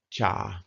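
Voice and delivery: "Cha" held on a level pitch; flat tone. Shown as a demonstration. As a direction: say "Cha" with no rise or fall. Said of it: "flat tone".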